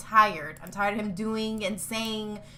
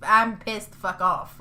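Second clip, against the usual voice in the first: worked-up, exasperated venting; pissed off; 5 dB louder than usual. Real, not acted. Fan venting about the game studio, pissed off. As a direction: vent it, leaning hard on the curse. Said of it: "I'm so fucking pissed".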